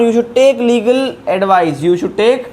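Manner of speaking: reads the English example very slowly; slow dictation. Shown as a demonstration. Teacher to Hindi-speaking learners, slow dictation pace. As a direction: give every word its own space.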